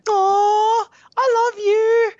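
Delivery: very high, loud cooing; cooing girlfriend voice. Retold or imitated. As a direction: coo it like a sweet, placated girlfriend. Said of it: "And she's like".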